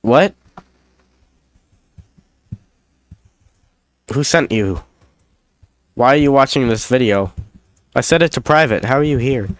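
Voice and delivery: hammed-up shock at an intruder, pitched high; mock surprise. Caught by a viewer of a private video, hammed-up alarm. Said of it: "It's called improv".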